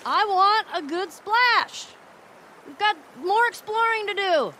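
excited call. Acted. Excited play at the museum.

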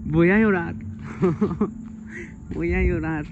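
about to cry, played up; mock crying. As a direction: pretend the tears are coming. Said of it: "No quiero llorar". (fingiendo que va a llorar)

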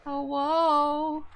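high, hearty calling hello. Real, not acted. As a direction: sing out a big cheery hello. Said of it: "I'm doing the hello voice".

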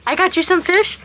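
ordinary talk

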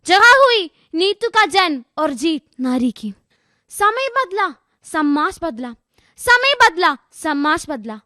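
rhythmic verse, lifted phrases answered by falling ones; poem recitation. Acted. Student telling the girl's story, dramatic recitation. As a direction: declaim the story line by line.

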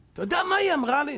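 mock childish whine, high-pitched and quick; like a kindergarten child. Husband complaining to the rabbi about his wife, like a kindergarten child. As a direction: imitate an outraged little kid tattling. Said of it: "כמו ילד בגן".

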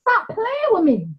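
lightly voiced stern Most High; a hint of a scolding God. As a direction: scold like a fed-up father, lightly. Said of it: "This is what he is saying to us".

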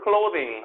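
clothing with a relaxed tongue on the th; loose-tongued th. Shown as a demonstration. Teacher shows students the sound, clothing with loose-tongued th. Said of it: "혀를 좀 푼 차로".

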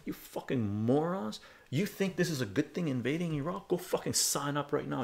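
heated final retort, retold; retold angry rant. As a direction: spit it at the yahoos. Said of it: "the last thing I said to them".

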